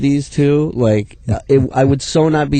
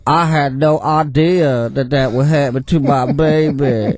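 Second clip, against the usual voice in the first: slow, dopey mock voice of a clueless mother; mimicking the mother on the news, slow and dopey. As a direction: play her as slow and dim, lightly hammed. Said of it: "and she's going".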